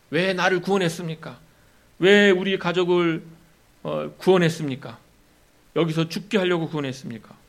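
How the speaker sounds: a complainer confronting his rescuer; grumbling Israelite. Retold or imitated. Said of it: "원망하고 따진 것이죠".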